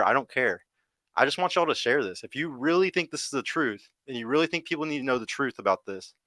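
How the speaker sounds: impassioned, pitch riding high; passionate. Real, not acted. Streamer urging viewers to share the truth, passionate. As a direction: insist on it with conviction. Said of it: "talk with some passion behind their fucking voice".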